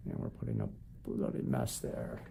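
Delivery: mock English accent on "bloody mess"; playful attempt at an English accent. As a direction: put on a light English accent. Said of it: "I said that with an English accent".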